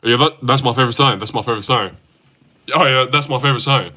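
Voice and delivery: lightly imitated athlete's catchphrase; quick, casual basketball star impression; LeBron. Streamer repeating a LeBron quote for chat, lightly imitated voice. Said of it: "what's another LeBron quote".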